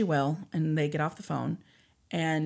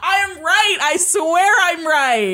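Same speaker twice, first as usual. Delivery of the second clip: laughing; 12 semitones higher, 12 dB louder, slower than usual. Real, not acted. Joking argument about being right.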